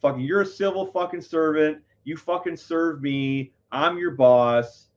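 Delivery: high, insistent re-enacted rant; retold going off. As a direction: lay it down slowly, as if putting an officer in place. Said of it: "I started going off".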